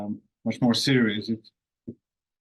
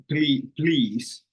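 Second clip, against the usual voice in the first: Finnish-style please; 3 semitones higher than usual. Shown as a demonstration. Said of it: "with the Finnish, uh, way of saying please".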